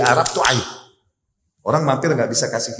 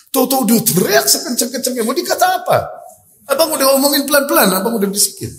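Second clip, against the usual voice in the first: nagging wife; 9 semitones higher than usual. Retold or imitated. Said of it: "Begitu ngomel".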